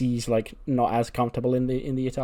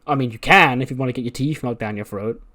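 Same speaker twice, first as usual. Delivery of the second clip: acted warning with a louder punch; mock threat; 7 dB louder than usual. Johnny warns Garza away from Candice, mock threat. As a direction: warn off a flirting rival, hammed-up.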